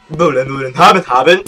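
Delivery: light singsong copy of the neighbour's chirp; Ned Flanders imitation. Gamer parroting the neighbour's line, mock cheerful. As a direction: echo the game line cheerily. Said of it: "Ned Flanders".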